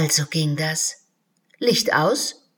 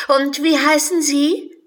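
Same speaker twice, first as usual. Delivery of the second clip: put-on high, loud girlish question; a curious little girl; 9 semitones higher, 8 dB louder than usual. Alice asks the unicorn its name, high and curious.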